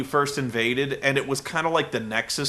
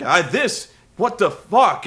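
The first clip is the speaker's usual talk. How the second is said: sudden disbelieving outburst; half-hammed what the fuck; retold shock; 5 semitones higher, 5 dB louder, slower than usual. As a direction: sputter in mock shock. Tenay reacts to Taz.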